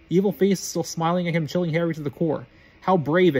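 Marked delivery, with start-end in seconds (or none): 2.8-3.4 louder mocking hiss. Voldemort mockingly praising Harry, a louder hiss. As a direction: sneer the praise. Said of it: "it hissed".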